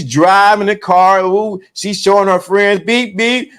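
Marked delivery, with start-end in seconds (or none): none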